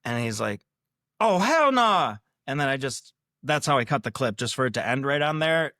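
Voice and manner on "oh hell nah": put-on loud, high "hell nah" in a Black American accent, more emphatic; Black American accent, louder and higher; imitated Black accent. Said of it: "I'm doing black accent".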